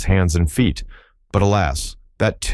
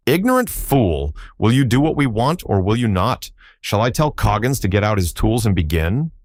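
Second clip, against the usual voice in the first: villain threatening Tommy, pitched up and contemptuous; impatient threat; 3 semitones higher than usual. Acted. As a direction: spit the insult, then press him.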